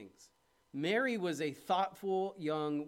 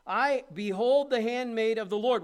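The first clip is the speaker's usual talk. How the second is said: higher and louder, proclaimed; fervent declaration; 6 semitones higher, 10 dB louder than usual. Acted. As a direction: declare it with full conviction. Preacher voicing Mary, full force.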